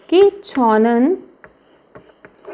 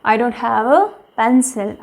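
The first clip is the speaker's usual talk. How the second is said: slow model sentence; much slower than usual. Shown as a demonstration. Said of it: "okay".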